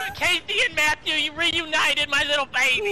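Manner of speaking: put-on elderly singsong. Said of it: "You already know who I'm playing".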